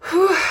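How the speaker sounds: a loud whew, blowing out air; breathy exhale. Real, not acted. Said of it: "I am so out of breath".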